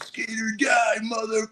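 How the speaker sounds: a wild yell at full speed; mock yell. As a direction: belt it out as you race downhill. Yelling while bombing the hill.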